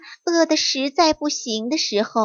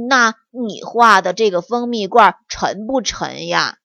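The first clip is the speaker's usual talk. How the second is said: lower, dopey little bear asking; silly; 4 semitones lower than usual. Acted. Little bear asking the fox about the drawing, naively. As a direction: ask it naively. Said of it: "小熊傻乎乎地说".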